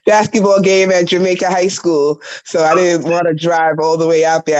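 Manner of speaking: slightly hoarse, scratchy voice; a little rasp in the throat; raspy voice. Real, not acted. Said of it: "I have a little raspy voice".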